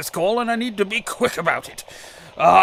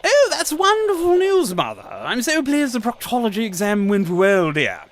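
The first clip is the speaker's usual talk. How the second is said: high, loud put-on cheerfulness; fake cheerful cover; 4 semitones higher, 3 dB louder than usual. Caller pretending to chat with his mother, hammed-up cheer. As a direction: overplay the cheer to fool someone listening.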